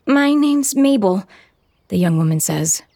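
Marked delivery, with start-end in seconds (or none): 0.1-1.2 high, slow and trembling; shaky, frightened, higher and louder. Acted. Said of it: "her voice trembling".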